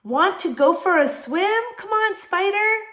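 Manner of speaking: very high, loud duck voice; duck calling. A narrator's reading. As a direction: coax a friend along in a squawky duck voice. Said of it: "called the duck".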